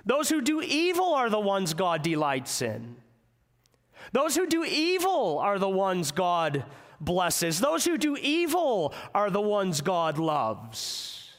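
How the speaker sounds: a touch of mock resignation; sarcastic grumbling. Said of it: "They began to say sarcastically".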